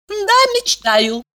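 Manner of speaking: slow, high, dug-in reply; stubborn. A narrator's reading. Valeria stubbornly answers her friend's scorn. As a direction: insist on it firmly. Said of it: "упрямо подтвердила Валерия".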